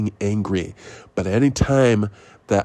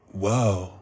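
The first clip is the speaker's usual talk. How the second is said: Keanu whoa; 2 semitones lower, 5 dB quieter than usual. Retold or imitated. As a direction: breathe out a slow stunned whoa. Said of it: "like, Keanu".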